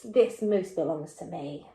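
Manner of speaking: a hint of a stern cross boy. Shown as a demonstration. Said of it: "very, very cross".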